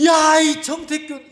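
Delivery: high, loud yell; shouting at himself. Retold or imitated. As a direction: call yourself out at full voice. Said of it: "예배당에서 소리를 내가지고". (자신에게 크게 소리치기)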